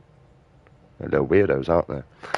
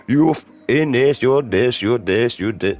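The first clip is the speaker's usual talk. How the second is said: blatant insults; 5 semitones higher, 3 dB louder than usual. Retold or imitated. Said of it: "It can't just be blatant".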